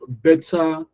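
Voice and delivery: "better" with a full second syllable, BET-TAH; both syllables emphasized. Shown as a demonstration. Teacher repeating examples for learners, both syllables of "better" emphasized. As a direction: give both halves of "better" equal weight. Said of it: "I said them again".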